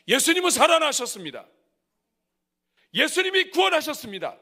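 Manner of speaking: high, loud proclaiming; bold proclamation. Shown as a demonstration. Pastor showing how disciples proclaimed, loud bold declaration. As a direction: declare it boldly. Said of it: "이거를 선포했다".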